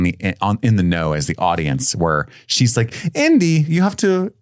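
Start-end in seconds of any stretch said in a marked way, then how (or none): 3.1-4.3 high, worked-up mock protest; imitated alarmed woman. Woman warning Indy off the window stunt, high mock alarm. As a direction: imitate her objecting, pitched way up.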